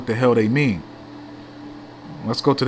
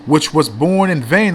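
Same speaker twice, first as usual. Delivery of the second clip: slow, raised, emphatic reading; declaimed scripture; 3 semitones higher, 3 dB louder than usual. Real, not acted. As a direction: hammer out each word of the verse. Repeated emphatic reading of verse.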